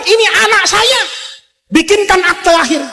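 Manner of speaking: high, proud royal command; proud Pharaoh. Acted. Pharaoh orders a birth certificate for his baby, proudly in a high voice. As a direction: announce it like a boastful king. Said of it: "Itu Firaun bilang".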